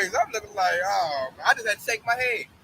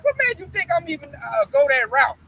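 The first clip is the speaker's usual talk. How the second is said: raised, indignant comeback easing off at the end; higher-pitched affronted retort; retold offense; 4 semitones higher than usual. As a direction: challenge him as if insulted. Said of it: "So I'm getting offended".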